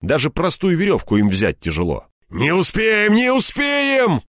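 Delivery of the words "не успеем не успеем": high, despairing wail; wailing lament. A narrator's reading. Степаныч saws at tough rope, wailing in despair. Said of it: "причитал Степаныч".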